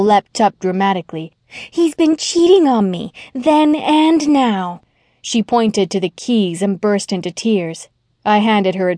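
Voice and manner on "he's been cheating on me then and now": much higher, slowing near-sob; tearful outburst. Acted. Jilted young woman accusing Ted, tearful outburst. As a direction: break into tears by the end. Burst into tears.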